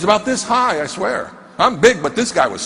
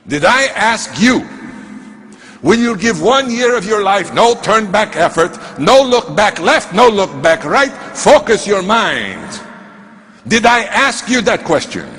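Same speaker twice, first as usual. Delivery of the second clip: insistent demand; 2 semitones higher than usual. Retold or imitated. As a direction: hammer out the question as an acted scolding. Mentor repeats his demand insistently.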